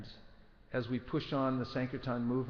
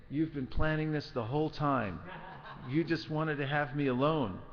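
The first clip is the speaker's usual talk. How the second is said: accusing, raised voice; berating; 3 semitones higher than usual. Acted. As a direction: scold him with bitter blame. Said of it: "she began to berate Lakshman".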